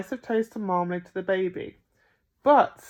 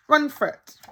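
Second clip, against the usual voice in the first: higher, louder little voice; baby echo; 7 semitones higher, 7 dB louder than usual. A narrator's reading. Baby copying Bill in the park, chirpy. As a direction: chirp it back like a toddler.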